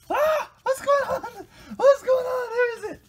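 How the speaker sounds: very high, loud squeaky mock cries; squeaky pet voice. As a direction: squeak like a startled little creature.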